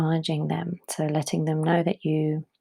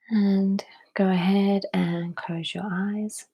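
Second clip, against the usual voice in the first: calm, spacious breathing instruction; guided meditation. Real, not acted.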